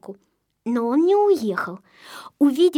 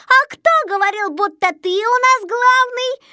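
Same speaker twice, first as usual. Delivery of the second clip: high, loud, insistent challenge; pressing accusation; 10 semitones higher, 5 dB louder than usual. A narrator's reading. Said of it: "напирал на Незнайку Сиропчик". (напирая, высоко и громко)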